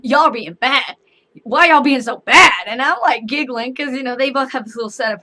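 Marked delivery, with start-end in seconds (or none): 0.0-2.6 scolding mom. Retold or imitated. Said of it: "she keeps telling".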